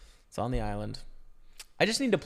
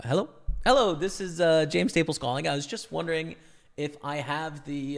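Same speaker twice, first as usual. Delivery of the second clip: polite phone voice; 2 semitones higher than usual. Shown as a demonstration. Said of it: "with a good phone voice".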